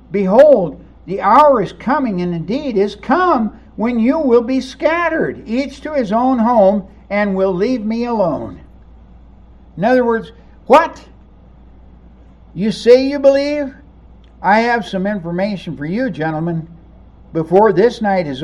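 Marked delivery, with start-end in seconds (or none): 0.1-8.6 exasperated prophetic warning. Acted. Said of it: "full of exasperation". 10.6-13.7 high, loud mocking what; sarcastic, incredulous challenge; sarcastic disbelief. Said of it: "a bit of sarcasm".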